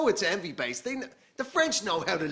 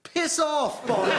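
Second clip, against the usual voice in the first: mock dismissal; 5 semitones higher, 3 dB louder than usual. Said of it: "Just a general sense of".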